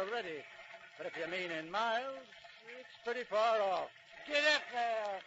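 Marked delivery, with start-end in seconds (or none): 4.3-5.2 calling to horses. Acted. Driver urging the horses.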